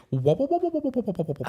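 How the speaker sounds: quick burbling run of wops; spooky wobbling noise. Acted. Answering a question about spookiness, spooky wobbling noise.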